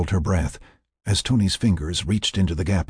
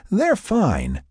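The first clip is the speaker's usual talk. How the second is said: chuckle, then high amused report; 13 semitones higher than usual. A narrator's reading. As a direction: report through a light laugh. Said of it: "reported with a chuckle".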